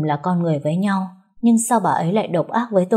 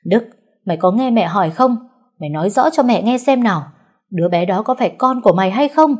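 a loud, higher demand; shouting; 4 semitones higher, 4 dB louder than usual. Acted. Mother shouting at her son, loud. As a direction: yell at the son for an answer. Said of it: "gào lên".

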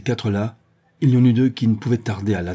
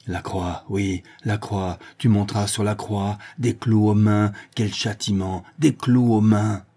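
folie. Acted. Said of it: "Elle était folle".

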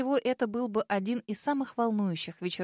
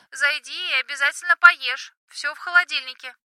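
higher, louder fussing mom; chatty mother on the phone, raised pitch; mother's voice; 5 semitones higher, 8 dB louder than usual. Acted.

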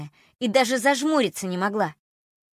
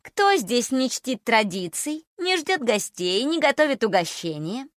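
sing-song taunt; 3 semitones higher than usual. Acted. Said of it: "нараспев протянула она".

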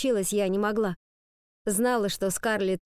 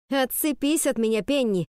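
firmer but voice shaking; shaky voice; 4 semitones higher than usual. Acted. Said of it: "получилось громче, но у меня дрожал голос".

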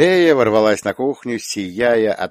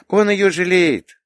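put-on slow, higher child's voice; calm little girl; 11 semitones higher, 5 dB louder, slower than usual. A narrator's reading. Little girl explains papa pities Inna, calm. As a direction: explain it slowly and simply as a child. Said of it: "спокойно ответила Лея".

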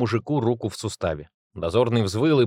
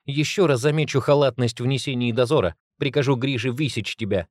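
growled through teeth; 3 semitones higher than usual. Acted. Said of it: "сквозь зубы прорычала она".

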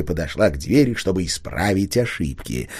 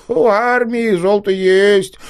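медленно и высоко, мечтательно тянуть; представить мешки золота; 13 semitones higher, 6 dB louder, slower than usual. A narrator's reading. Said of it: "мечтательно произнёс мэр". (мэр мечтательно говорит о воинах)

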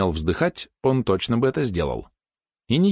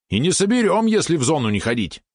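high-pitched resigned complaint; 8 semitones higher than usual. A narrator's reading. Valeron despairs of the narrator going hunting, resigned. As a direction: complain as if it were hopeless, pitch raised. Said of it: "обречённо тявкнул Валерон".

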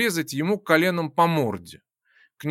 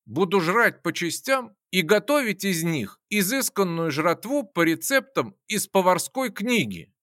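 mad yell; 3 semitones higher than usual. Acted. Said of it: "Я заорал".

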